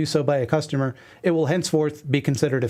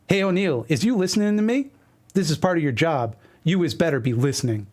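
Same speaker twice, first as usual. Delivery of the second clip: mock boss calling out a slacker; imitating old boss. Boss calling out O'Neill at a staff meeting, lightly mock-bossy. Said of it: "a boss I had actually spoke, is why he talks like this".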